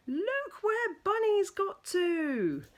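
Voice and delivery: loud, high scolding; exasperated parent. Acted. Parents scolding Mog, loud and exasperated. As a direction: scold the cat for dragging Bunny off. Parents complaining about dirty Bunny.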